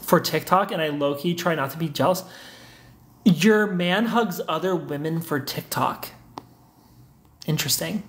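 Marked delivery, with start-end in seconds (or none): 3.2-6.1 slow, pointed disbelief; incredulous echo. Real, not acted. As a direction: repeat it back slowly, as if checking you heard right. Repeats viewer's comment back, taken aback.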